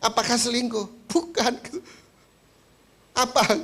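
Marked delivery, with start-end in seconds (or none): 1.1-1.8 higher, a lightly voiced wife saying no; a hint of a fussy wife brushing it off; wife's denial. Wife waving off the pastor's guess, light high denial. 3.2-3.5 higher, puzzled pastor pressing; pressing for the reason, baffled; exasperated question. Acted. Pastor pressing the tight-lipped wife, baffled question.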